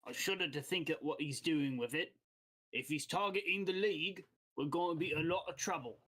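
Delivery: lightly voiced guild boss, uneasy; accented boss sizing up the threat; worried guild boss. Game master voices guild boss.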